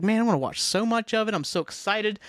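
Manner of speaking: mildly hyped-up retelling; retold excitement. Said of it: "I was so excited".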